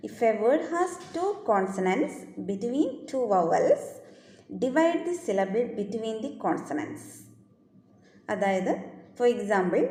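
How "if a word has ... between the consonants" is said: slow dictation. Shown as a demonstration. Teacher dictating the syllable rule to students, very slow. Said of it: "അതാണ്".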